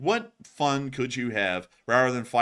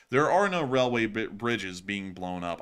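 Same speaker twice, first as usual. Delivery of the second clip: stumbling over the word; tripping over words; stuttering. Real, not acted. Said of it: "I'm stuttering so much tonight".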